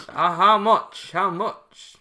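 high, slow, strained haggle; mock nervous haggler asking how much; nervous haggling. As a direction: squeak out the price question.

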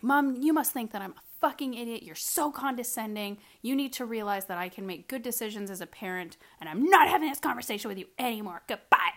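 loud, fed-up telling-off; angry. Retold or imitated. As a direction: scold her and hang up. Angry retold phone call.

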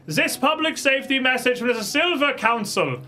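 loud, high, slow proclamation; town crier. Acted. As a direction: cry out the news to the square. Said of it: "a town crier".

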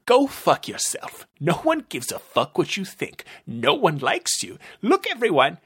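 detective mocks the lieutenant in front of the room; angry rant. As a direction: rip into him in front of everyone.

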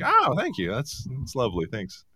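fake-gracious thank you; mock polite thanks. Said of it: "I was like".

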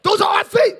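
hammed-up alarm about stolen clothes; prince's servant crying out about stolen clothes, mock panic. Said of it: "When you know who you are".

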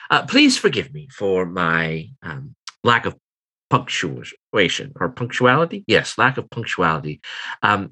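a lightly voiced refined businesswoman, a little flustered; apologetic Eliza.

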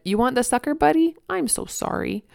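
gently commiserate with a little one; soothing sympathy. Retold or imitated. Mom consoling her toddler over a sucker, soothing.

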